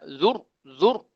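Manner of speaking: "zur" with a heavy, full-mouthed vowel. Shown as a demonstration. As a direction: give "zur" a thick, heavy r sound. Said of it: "Kena tebalkan".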